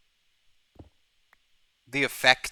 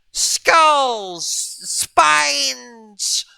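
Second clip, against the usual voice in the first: high, loud skeleton voice; talking skull; 9 semitones higher, 8 dB louder, much slower than usual. Pretend. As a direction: rattle off bones like a cartoon skeleton. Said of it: "My skeleton impression".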